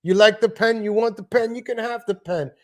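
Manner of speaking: lightly voiced pushy host offering the pen; mock New York sitcom character; pen scene voice. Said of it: "He's like".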